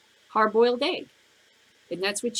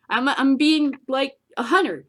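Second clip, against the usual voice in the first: laughing; 5 semitones higher, 7 dB louder than usual. Real, not acted. Laughing at own rant.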